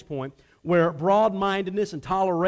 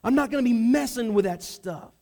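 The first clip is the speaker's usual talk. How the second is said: higher and louder, stress on never; indignant protest; 4 semitones higher, 3 dB louder than usual. Acted. Peter protesting to God, indignant and loud. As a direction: insist on your purity, offended. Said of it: "He would protest this".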